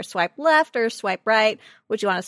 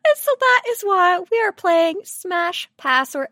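laughing through it; 7 semitones higher, 4 dB louder than usual. Real, not acted.

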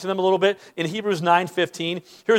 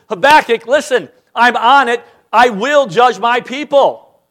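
lightly voiced God; 5 semitones higher, 6 dB louder than usual. God voiced answering Habakkuk.

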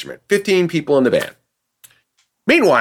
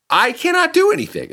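exasperated; 13 semitones higher than usual. Retold or imitated. Exasperated protest to management.

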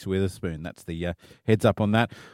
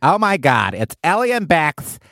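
camp LA reporter; 2 semitones higher than usual. Pretend. Co-host showing off her camp LA entertainment reporter voice. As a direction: gush like a Hollywood Reporter host. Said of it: "I do a Camp L A, think Hollywood Reporter".

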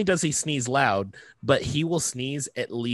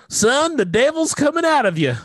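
great-grandmother; 13 semitones higher, 5 dB louder than usual. Retold or imitated. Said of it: "She'd go".

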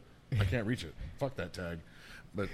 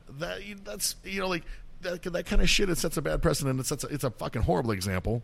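higher and louder, real fury at selfish drivers; heated rant; 7 semitones higher, 5 dB louder than usual. Real, not acted. Ranting about school drop-off parents, real heated anger. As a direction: let the anger boil up through the whole rant.

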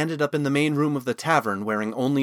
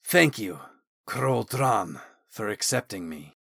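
ceremonial, emotional; 2 semitones lower, 3 dB quieter than usual. A narrator's reading. Osmond thanking Talon for accepting him, ceremonial and moved. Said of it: "almost ceremonial voice thick with emotion".

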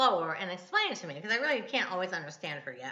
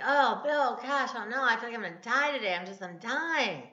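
mock woeful lament, rising and falling; hammed-up bellyaching about pain; retold moaning; 2 semitones higher than usual. Wife complaining to Bill about her pain, imitated woe. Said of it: "I would just be like".

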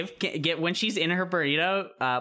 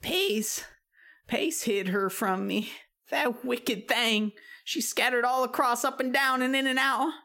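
witch voice; 9 semitones higher than usual. Acted. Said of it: "witch monologue".

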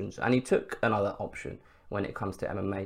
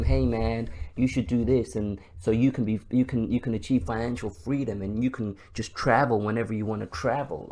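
bad American accent. Social media guru pitching financial freedom, mock American accent. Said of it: "that shit American accent".

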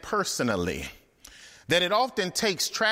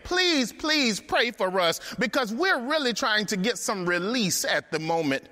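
begging; 4 semitones higher than usual. Acted. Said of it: "they're begging Jeremiah".

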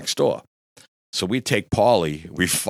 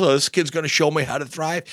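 higher-pitched scornful quote; indignant mockery; 8 semitones higher than usual. Driver stung by drunk passenger's criticism, indignant mockery. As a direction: act out taking offence at a backseat critic.

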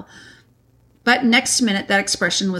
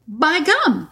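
higher-pitched, voiced stage whisper; excited whisper; 8 semitones higher than usual. A narrator's reading. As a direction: Peter exclaiming under his breath, lightly acted. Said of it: "whispered Peter to Susan".

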